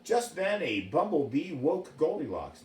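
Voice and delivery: put-on reading a fairy tale to children; story narration. A narrator's reading. Storyteller reading Goldilocks to a child. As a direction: tell it gently like a bedtime story.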